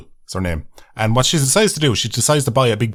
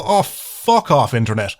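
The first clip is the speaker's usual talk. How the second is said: mock outburst; slower than usual. Fed up with the internet, mock telling it off. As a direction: slowly sneer it off at the screen. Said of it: "stick my fucking middle finger up at the screen and just go".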